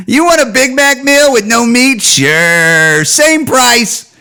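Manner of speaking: mock the customer through laughter; giggling mock cashier. Cashier mocking the meat-free Big Mac order, giggling. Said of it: "they're just giggling".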